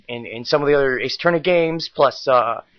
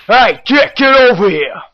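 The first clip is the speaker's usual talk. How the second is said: boss yelling; 7 semitones higher, 6 dB louder than usual. Acted.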